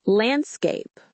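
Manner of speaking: Landscape said clearly with each sound shown; model word landscape. Shown as a demonstration. Teacher models Landscape for the listener, clear and careful. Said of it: "landscape became".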